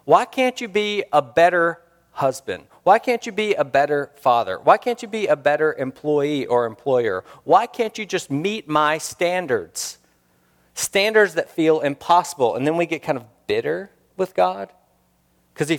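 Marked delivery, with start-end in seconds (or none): 0.0-10.0 demanding God. Retold or imitated. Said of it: "hear Jesus speaking like that to us".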